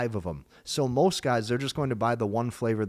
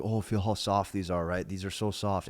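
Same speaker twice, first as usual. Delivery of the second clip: soft tone; 2 semitones lower, 4 dB quieter than usual. Shown as a demonstration. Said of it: "the whole tone of voice the whole time was like".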